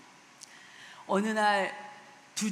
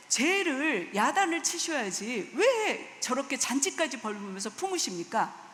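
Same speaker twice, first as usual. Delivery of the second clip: angry protest; 3 semitones higher than usual. Retold or imitated. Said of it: "따지고 화를 냈다는 것입니다".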